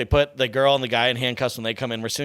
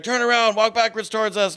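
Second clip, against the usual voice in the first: higher-pitched imitation of a police order; retold agent command; 6 semitones higher than usual. Agents order him backwards at gunpoint, lightly acted command.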